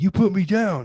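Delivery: high-pitched mock yell of a furious dad; hammed-up drunken outrage; imitated angry yelling. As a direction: accuse like a drunk, angry father. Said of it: "and he's yelling at me".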